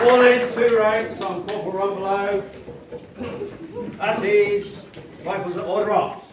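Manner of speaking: loud drill commands; barked parade commands. Acted. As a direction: shout it across the parade ground.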